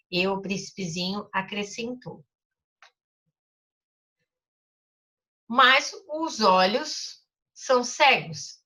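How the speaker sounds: put-on storybook reading for children; teacher reading a story aloud. A narrator's reading. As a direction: read the story gently to the class. Reads the Little Prince aloud.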